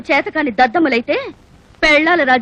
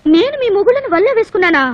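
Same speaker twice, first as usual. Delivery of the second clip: higher, affronted questioning; indignant retort; 5 semitones higher than usual. Acted. Accused woman answering angry wives, indignant. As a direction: throw the accusation back at them.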